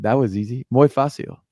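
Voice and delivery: put-on light Spanish-accented ad voice. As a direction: say it like a Spanish tennis star in an ad. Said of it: "in his Spanish accent".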